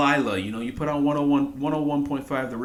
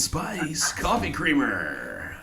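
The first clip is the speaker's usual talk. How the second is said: radio station voice. Shown as a demonstration. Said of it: "give me your radio station voice again".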